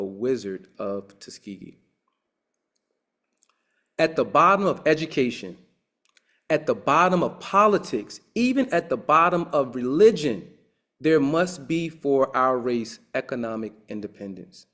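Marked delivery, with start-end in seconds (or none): 4.0-14.7 raised, forceful oratory; rousing quote. Retold or imitated. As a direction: deliver it like a speech from the pulpit. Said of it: "Booker T. Washington".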